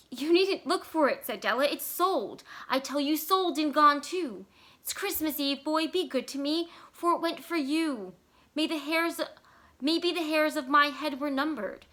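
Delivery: earnest high plea. A narrator's reading. Della insisting to Jim the hair is sold, high and earnest. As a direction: press him gently but high.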